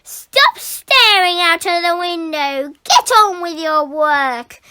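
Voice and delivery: loud stern teacher scolding; stern telling-off. Acted. Teacher scolding the daydreamer, loud and stern. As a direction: order him back to work. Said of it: "boomed Missus Boot".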